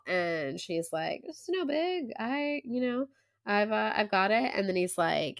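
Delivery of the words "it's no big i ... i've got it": high, hesitant reassurance to Dad; lightly voiced daughter downplaying it; imitated casual brush-off.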